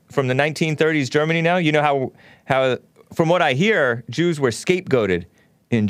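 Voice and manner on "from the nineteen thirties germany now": "From the nineteen thirties Germany now?" rattled off fast, flat; fast throwaway reread of the chat question; quick reread. Shown as a demonstration. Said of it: "He probably wrote Jews".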